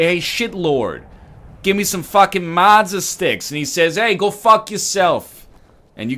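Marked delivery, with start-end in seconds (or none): 0.0-3.5 loud, higher, drawn-out heckle; mock rude order. Crude customer ordering mozza sticks, loudly rude. 4.0-5.5 loud, high, slowed-down retort; mock rude comeback. Server answering a rude customer, mock-hostile shout.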